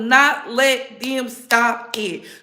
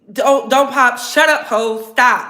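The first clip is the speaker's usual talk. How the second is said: mock angry shout; 4 dB louder, slower than usual. Acting out being told off.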